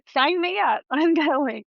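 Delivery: acted-out gung-ho reply; eager acceptance. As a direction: jump at the invitation. Eagerly accepts an imagined skydiving invite.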